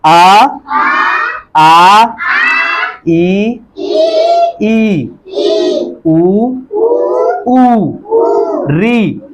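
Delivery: loud, drawn-out teacher drill; loud drill call. Shown as a demonstration. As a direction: call out each vowel loud for the class to repeat. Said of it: "फिर से repeat करते हैं भैया".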